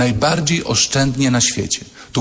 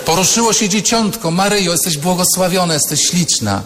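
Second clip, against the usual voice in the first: excited greeting; 5 semitones higher than usual. Retold or imitated. Elizabeth greeting Mary, excited.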